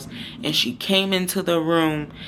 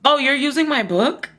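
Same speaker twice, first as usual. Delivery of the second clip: high, loud accusing question; snippy accusation; 9 semitones higher, 5 dB louder than usual. Retold or imitated. Roommate catching her using the book, loud and accusing. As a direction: catch her red-handed, sharply. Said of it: "and she said".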